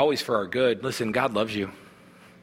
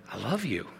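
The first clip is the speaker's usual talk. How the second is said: hushed, much softer than the preaching; tender whisper; 2 semitones lower, 7 dB quieter than usual. Acted. God to the listener held close, tender whisper. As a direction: drop to a near-whisper, close to the ear. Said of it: "and he whispers to you".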